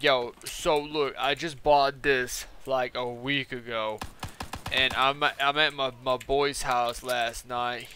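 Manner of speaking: slow, drawn-out mock customer voice; lightly put-on slow-talking dude; imitated customer. Customer explaining his damaged mod to the shop clerk, slow imitation. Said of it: "this dude is talking like this".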